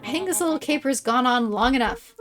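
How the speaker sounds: theatrical villain voice; villain monologue. Acted. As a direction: gloat like a storybook villain.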